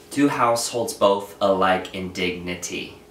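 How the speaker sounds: "Two households both alike in dignity" in da-DUM beats, slowly; iambic stress. Shown as a demonstration. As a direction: tap out the meter, stressing every second syllable. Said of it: "Now I'm exaggerating it for you to hear it".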